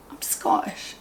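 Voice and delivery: a whispered confession; whispering. Real, not acted. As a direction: drop to a whisper, like a secret. Confessing accent, dropped to whisper.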